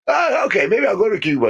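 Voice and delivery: high mock voice of a tempted senator; tempted politician giving in. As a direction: play a politician lured by a bribe, giving in. Bob accepting the Cuba trip.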